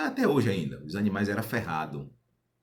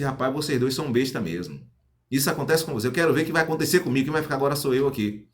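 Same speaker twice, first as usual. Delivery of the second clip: quick, mocking brag, a touch higher; cocky boast; 4 semitones higher, 3 dB louder, faster than usual. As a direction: scoff at the two fools and boast. Boasting, mocking the other two.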